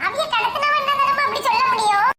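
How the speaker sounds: high-pitched anxious sibling voice; scared young sibling. Acted. Siblings waiting for mother's call, nervous and high.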